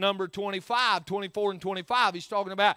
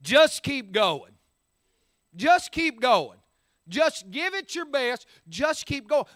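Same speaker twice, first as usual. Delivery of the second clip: encouraging friend; 3 semitones higher than usual. Retold or imitated. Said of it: "comes alongside of you and goes".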